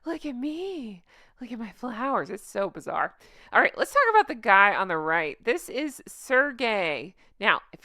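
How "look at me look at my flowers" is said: better mock Megan. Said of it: "Let me try it again".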